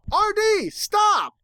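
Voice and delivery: very high urgent shout; crying out. A narrator's reading. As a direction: shout a warning to a friend. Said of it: "I heard Applejack cry out".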